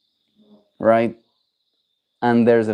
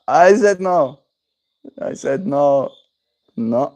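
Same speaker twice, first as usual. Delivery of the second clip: raised, emphatic "no" to the dog; louder stern refusal; firm no; 3 semitones higher, 3 dB louder, slower than usual. Real, not acted. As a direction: put your foot down with the dog.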